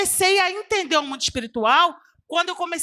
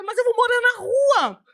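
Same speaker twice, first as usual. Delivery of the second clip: higher, despairing cry; retold crying wail; 9 semitones higher than usual. Woman weeping about losing her home, despairing. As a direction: wail that she'll be homeless. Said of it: "E eu chorava".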